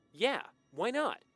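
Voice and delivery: high, loud, drawn-out yeah; game-for-it boy; eager agreement. A narrator's reading.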